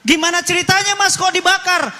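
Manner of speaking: retold shock at the prisoner's words; shocked question. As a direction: asks in alarm how it happened. Preacher retells his shocked question.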